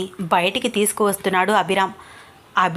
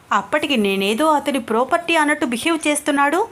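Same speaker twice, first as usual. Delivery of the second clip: annoyed inner grumbling; 5 semitones higher than usual. Acted. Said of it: "మనసులో తిట్టుకుంటూ ... కోపంగా".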